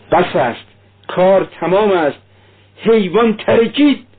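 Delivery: dying woman's despairing outcry, rising high; despairing cry. A narrator's reading. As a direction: cry out in hopeless despair, climbing to the last word.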